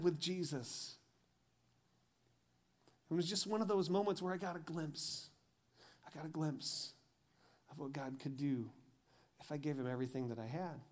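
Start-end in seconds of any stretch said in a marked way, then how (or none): 3.1-10.8 soft reflective preaching. Acted. Pastor closing the message to the congregation, hushed and tender. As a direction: draw them in, almost hushed.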